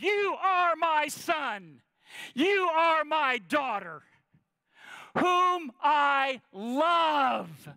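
slow, high tender proclamation from heaven; voice of God. Acted. God telling each listener, slow and tender. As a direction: speak it slowly as God blessing his children. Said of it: "God looks down at you and says".

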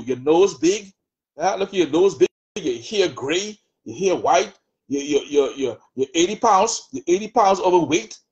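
lightly voiced taunting devil, mocking; the adversary's taunting voice. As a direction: sneer at the listener as the accuser in their head. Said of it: "the devil hates about you".

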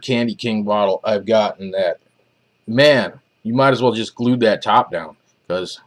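vape tip touching lip; speaking around mouthpiece; talking with vape at lips. Real, not acted. Seen 1: metal vape tip held against lips while talking; briefly lowered 2.4-3.7.

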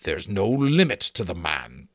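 mildly wondering tone. Acted. Giant marvelling at the captain, mildly wondering. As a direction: say it with a touch of wonder. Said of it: "said wonderingly".

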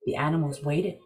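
calm storyteller reading a legend; story narration. A narrator's reading. Story narration over music.

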